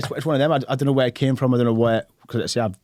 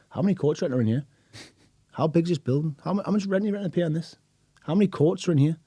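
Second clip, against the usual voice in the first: fast, higher, excited barrage of questions; rapid nosy questions; 7 semitones higher than usual. Retold or imitated. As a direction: fire off curious questions with no pause. Retelling his own nosy questions.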